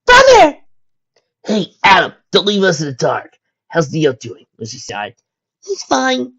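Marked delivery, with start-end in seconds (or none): 0.0-0.6 high, loud overjoyed shout; joyful cry. A narrator's reading. 1.4-4.5 calling out. A narrator's reading. Calling from another cell. 5.6-6.3 high, bright relieved answer; joyous. A narrator's reading. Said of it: "Adam answered joyously".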